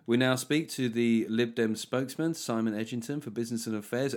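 newsreader intro. Retold or imitated. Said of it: "you do sound like a Lib Dem spokesman".

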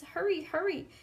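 put-on high, quick child's voice; little girl pushing; eager Grace. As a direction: flutter of hurry. Grace urging.

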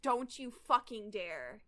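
slow, deliberate acted threat; slow warning. Reyes shielding the boy, slow warning. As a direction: draw the warning out slowly. Character warns off gunman, drawn out.

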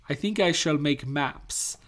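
slow, measured mock-formal announcement; lightly acted British officer. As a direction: declare it slowly, with playful formality. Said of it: "turned around and was like".

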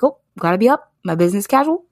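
perky hungover churchgoer; mock churchgoer. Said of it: "you're like".

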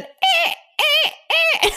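high, loud stabbing "eh"; imitated sound effect. Shown as a demonstration. Co-host supplying a sound effect for the bear, in sharp high squeals. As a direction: punch out high horror-sting noises. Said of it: "sound effect right now".

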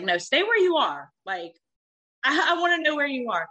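retold insistent demand on the phone. Demanding to know his location.

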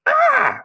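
short high-pitched yelp of alarm; comic cry of panic; mock scream. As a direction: let out a sudden, loud mock shriek. Acts out Banan's alarmed cry.

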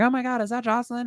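mock excitement. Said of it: "it's like".

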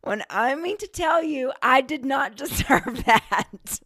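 high, loud, through real laughter; laughing protest. Real, not acted. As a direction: protest it while cracking up. Laughing while recalling the fright.

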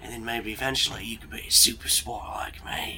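whispered aside from a spy; soft, secretive character whisper; conspiratorial whisper. Acted. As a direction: confide it in a hushed whisper. Game master voices boastful spy confiding.

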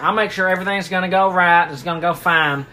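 hammed-up Texas dad; Texan country accent. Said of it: "he's got a big c-, country accent".

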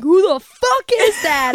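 high, drawn-out mock scream; retold scream. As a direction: re-enact a panicked scream, slowed down. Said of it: "I screamed that at her dad".

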